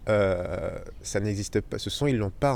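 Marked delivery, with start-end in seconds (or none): 0.1-0.8 drawn-out "euh" filler, lower in pitch; French hesitation euh. Shown as a demonstration. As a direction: demonstrate a low French "euh". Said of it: "ce que je viens de faire là".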